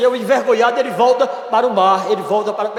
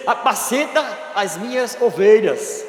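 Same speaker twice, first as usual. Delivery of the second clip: slow, firm charge to the flock; firm command. Acted. Jesus charging Peter, slow firm command.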